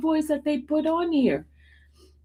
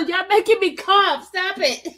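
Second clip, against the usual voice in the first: higher, worn out from laughing; laughing too hard; 5 semitones higher, 3 dB louder than usual. Real, not acted. Streamer telling the chat to stop, laughing too hard. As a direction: plead for a break from laughing. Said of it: "I'm laughing because".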